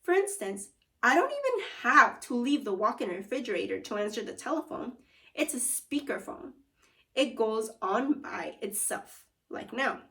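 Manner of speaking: a hint of a proud cook showing off his kitchen; cheerful food wizard. Food wizard boasting to the kids about his fridge, lightly voiced.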